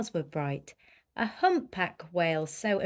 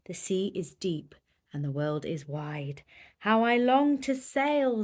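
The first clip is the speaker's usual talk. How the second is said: wistful sigh. Acted. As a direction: sigh it like a dreamer. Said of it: "she sniffed and sighed".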